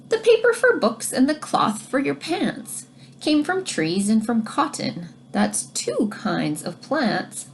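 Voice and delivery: put-on reading to children. Teacher reads rhyming book aloud.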